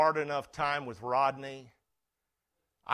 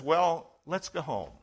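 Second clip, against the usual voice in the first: calm. Retold or imitated. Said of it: "very calmly".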